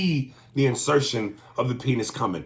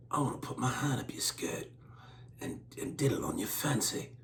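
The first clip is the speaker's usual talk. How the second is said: much softer put-on Indian accent; quiet hammed-up Indian accent; mock Indian accent; 11 dB quieter than usual. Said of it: "an Indian accent".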